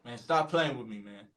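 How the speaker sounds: lightly annoyed American customer; put-on American warning, held back; American accent. Customer told to bin his ticket, put-on American accent. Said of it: "do an American accent".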